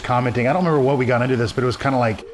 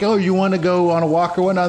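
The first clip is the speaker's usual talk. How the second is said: talking to a dog; 6 semitones higher than usual. Retold or imitated. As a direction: coax the dog, sing-song and high.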